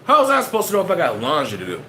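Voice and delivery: exasperated rant. Retold or imitated. Arguing with himself in his head about the rain, indignant outburst. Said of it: "In my head, I'm like".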